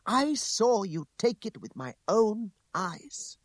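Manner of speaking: high, slow, emphatic woman's voice; outraged accusation. A narrator's reading. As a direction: drive each word home indignantly. She exclaims her accusation.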